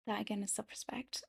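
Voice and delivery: soft whispered repeat; whispering. Real, not acted. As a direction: drop to a whisper for emphasis.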